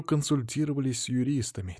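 detective quietly needles the millionaire; quiet remark. Acted. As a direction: say it quietly, pointedly. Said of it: "тихо заметил Алексей".

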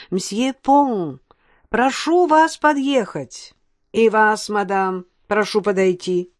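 police megaphone announcement. Acted. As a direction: speak through a loudhailer. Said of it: "усиленный мегафоном голос".

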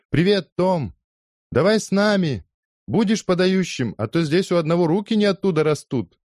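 high, loud call across the street. Acted. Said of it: "окликнула".

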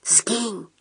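very soft, hushed banishment; quiet urgent whisper. A narrator's reading. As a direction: whisper it under your breath. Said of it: "прошептал я".

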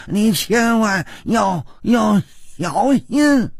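stammering warning, climbing high; halting assassin figure. Acted. Assassin warns hero of a deadlier man coming, urgent. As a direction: start near normal, then rise high and urgent.

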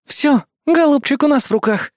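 hammed-up little evil gloat; mock growl. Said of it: "злобно прорычала Эрис".

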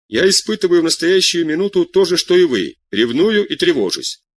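ревную leaned on, slowed; stress on ревную. A narrator's reading. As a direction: weigh the word ревную heavily. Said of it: "сделала ударение на слове «ревную»".

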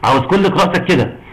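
ordinary delivery

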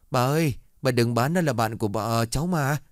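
a child pleading through mock tears; crying plea. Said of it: "khóc lóc cầu xin".

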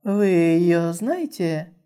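very slow, cold question. Acted. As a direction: ask it coolly and slowly. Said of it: "холодно посмотрела на них и спросила".

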